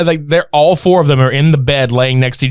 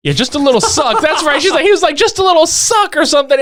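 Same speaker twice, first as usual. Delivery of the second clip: laughing through the words, higher; 12 semitones higher, faster than usual. Real, not acted. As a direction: giggle while saying it. Laughing retelling.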